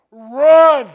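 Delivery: high, loud laughing shout of Run; panicked yell. Retold or imitated. Inner voice yells at dog attack.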